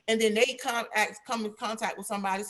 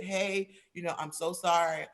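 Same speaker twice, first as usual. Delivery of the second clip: sincere condolence call; 4 semitones lower, 5 dB quieter than usual. Shown as a demonstration. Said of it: "get on the phone and say".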